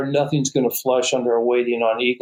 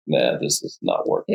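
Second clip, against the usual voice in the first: dog voice. Retold or imitated. Dog's thoughts voiced.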